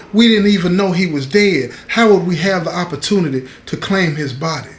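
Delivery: a father's outrage breaking through; indignant father. Retold or imitated. Father demanding of the lieutenant how they could claim the body, indignant.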